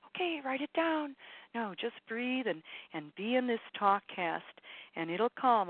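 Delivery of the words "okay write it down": higher, lightly voiced taskmaster; a hint of a dutiful list-maker; Ted to do. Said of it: "That's Ted to do listening".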